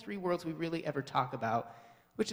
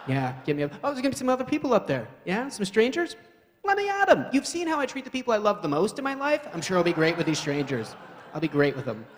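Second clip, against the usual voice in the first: mock volunteer; 4 semitones higher, 5 dB louder than usual. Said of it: "the mindset of that person is like".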